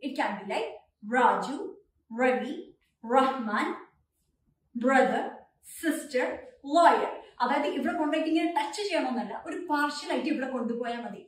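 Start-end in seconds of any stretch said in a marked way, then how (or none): 1.2-7.1 രാജു with the tongue touching the middle of the mouth, not the teeth; tongue-back R. Shown as a demonstration. Teacher demonstrating an improved English R. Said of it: "centre പാർട്ടിലോട്ട് ഒന്ന് കൊണ്ടുപോയിട്ട് touch ചെയ്താൽ".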